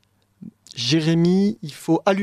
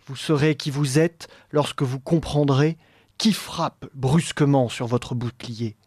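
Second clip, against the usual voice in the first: poem recitation. Acted. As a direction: recite it like a stage role. Reads the poetic dialogue aloud.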